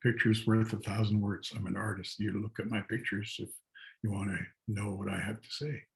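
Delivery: quietly decline, a touch self-effacing; shy retold refusal. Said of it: "I would just say".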